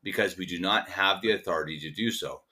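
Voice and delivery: measured quotation with long pauses; slow reading. Real, not acted. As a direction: read each phrase slowly and deliberately. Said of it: "I'm gonna read it slowly".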